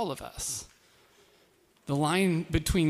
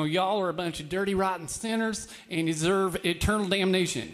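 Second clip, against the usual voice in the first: lightly put-on Southern accent, preacher scolding sinners; 3 semitones higher than usual. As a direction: imitate a Southern preacher, just a touch. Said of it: "do that in a southern accent".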